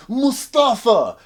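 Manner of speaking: high, drawn-out shouted name; mock shout. Krichkov baiting Pushkin, drawn-out mock shout. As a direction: bellow the name to provoke him.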